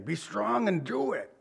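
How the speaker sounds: lightly voiced dad giving quiet encouragement. Preacher voicing a father's encouragement, softly. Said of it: "It sounds like a dad thing".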